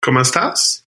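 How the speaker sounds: "¿Cómo estás?" with sassy Spanish flair; hammed-up Spanish accent. Shown as a demonstration. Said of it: "can't say anything Spanish without sass".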